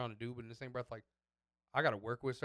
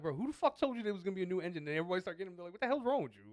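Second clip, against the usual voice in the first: loud, high mock outrage; raised-voice incredulous scolding, acted out; retold berating; 6 semitones higher, 5 dB louder, faster than usual. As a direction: imitate exasperated coworkers piling on. Coworkers berate him in retold scene.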